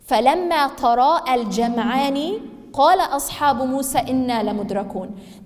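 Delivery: rapid melodic Quranic recitation. Acted. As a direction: chant the verse in one flowing breath. Quran recitation mid-lesson.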